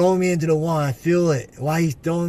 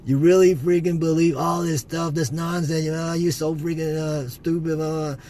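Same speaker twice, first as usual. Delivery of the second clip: retold demon screaming; 3 semitones higher than usual. Demon screaming in his face during the dream, mock yell. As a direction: hammer the words like a raging demon. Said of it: "screaming in my face".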